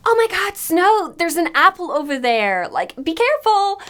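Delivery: hammed-up gasp of concern over the apple; mock worried friends. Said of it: "The amount of people that are like".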